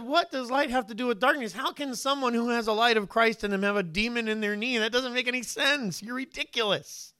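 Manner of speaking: high, incredulous scolding; scoffing at the friend's demon theory; scornful retort. Retold or imitated. Son scoffing at his dad's praying friend, high and incredulous.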